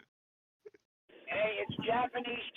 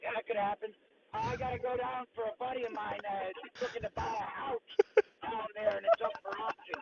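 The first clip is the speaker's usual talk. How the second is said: like talking through a sock; muffled phone mic. Real, not acted. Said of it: "You sound like you're in a tunnel".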